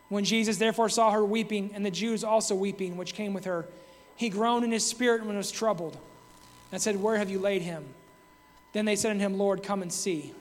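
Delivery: measured, solemn Bible reading; scripture reading. Acted. Preacher reading John's gospel to the congregation, solemn. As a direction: read the verses with reverence. Reads scripture passage aloud.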